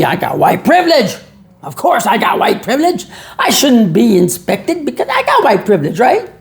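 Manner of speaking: mock-proud with a laugh; sarcastic. Mocking the white privilege claim to his audience, sarcastic. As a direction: say it dripping with sarcasm. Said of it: "I'm being sarcastic now".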